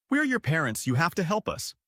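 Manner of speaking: high, pleading mock wail. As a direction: plead like a wailing mother. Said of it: "My mom wails".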